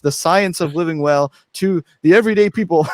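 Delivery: big hyped announcement voice; marketer mode. Pretend. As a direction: pitch it like a salesman. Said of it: "the mode of the, uh, marketer".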